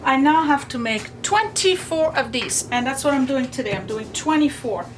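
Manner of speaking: talking over a running sewing machine; machine noise behind. Real, not acted. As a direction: speak with a machine whirring behind. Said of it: "Sorry about the machine in the background".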